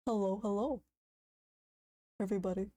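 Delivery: slow, drawn-out big YouTuber intro voice; Markiplier impression. Streamer mocking a big YouTuber's slow intro greeting. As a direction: stretch it out like a famous streamer greeting fans. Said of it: "if I stream like this".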